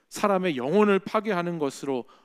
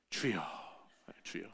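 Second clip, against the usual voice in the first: 주여 breathed in a soft whisper; hushed, restrained prayer cry; 10 semitones lower, 14 dB quieter than usual. Shown as a demonstration. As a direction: whisper 주여 to calm your anger. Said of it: "주여, 주여를 외치셔야 되는".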